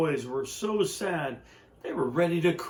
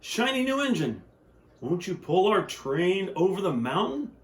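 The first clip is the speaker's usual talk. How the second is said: high pleading toy voices; toys crying out together; 4 semitones higher than usual. Acted. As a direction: beg the shiny engine in high little voices. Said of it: "cried out together".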